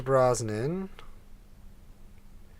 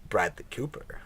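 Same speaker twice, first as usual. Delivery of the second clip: Bond villain; 5 dB quieter than usual. Shown as a demonstration. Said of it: "now it sounds like a Bond villain".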